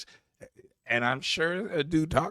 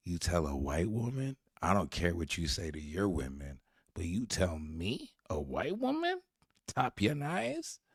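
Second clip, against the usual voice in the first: mock offended; 5 semitones lower, 4 dB quieter than usual. Host mimicking the offended white woman, mock indignation. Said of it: "she looked genuinely offended".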